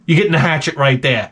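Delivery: ordinary talk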